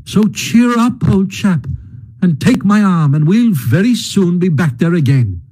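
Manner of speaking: hearty, lightly voiced Rat; heartily. Rat insisting on finding Mole's home, hearty and cheerful. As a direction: cheer him up with firm good humour. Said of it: "said the Rat heartily".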